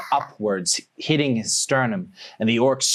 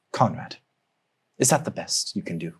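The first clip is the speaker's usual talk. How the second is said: annoyed; 3 semitones lower, 3 dB quieter than usual. Acted. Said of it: "annoyed look".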